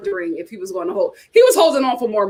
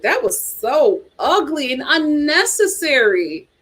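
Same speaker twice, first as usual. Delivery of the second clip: disgusted; 3 semitones higher, slower than usual. Retold or imitated. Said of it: "I was just like".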